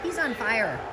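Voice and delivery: high excited yells to the players; yelling from the sidelines. Real, not acted. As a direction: holler encouragement across the rink.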